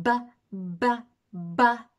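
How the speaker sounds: バ built up behind closed lips, then burst; exaggerated B. Shown as a demonstration. Teacher modelling exaggerated practice, explosive バ. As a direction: overdo each バ with a hard breath pop. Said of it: "発音練習の時は大げさに練習しておきましょう".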